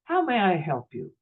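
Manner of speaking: gently imitated helpful desk clerk; patient, kindly welcome; tender smile. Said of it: "looks at me with this tender smile".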